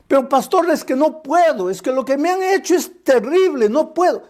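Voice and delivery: mild imitation of a churchgoer pleading with the pastor; pleading congregant.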